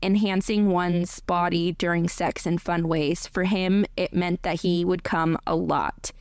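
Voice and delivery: even, measured audiobook read; composed reading voice; story narration. A narrator's reading. Reads the story aloud.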